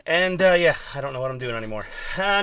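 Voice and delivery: ordinary talk, nothing marked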